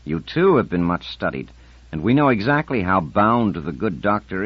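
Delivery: firm, measured bureaucrat; stern official voice. Acted. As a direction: press him with calm authority. Character Koropatsky speaks at length.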